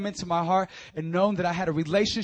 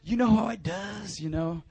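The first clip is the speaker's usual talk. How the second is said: lightly mocked teen slang; high schooler. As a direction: put on a cool schoolkid. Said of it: "my best impression of a high schooler".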